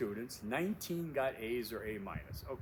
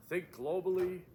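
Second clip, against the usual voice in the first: mock slogan; 8 semitones higher, 6 dB louder than usual. Instructor quoting an old bumper sticker, loudly. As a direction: Think globally called out high and loud. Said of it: "the old bumper sticker".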